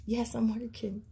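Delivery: whispered reply with a laugh; amused whisper. Real, not acted. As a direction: whisper back, tickled by the question. Answers the whispered question, laughing.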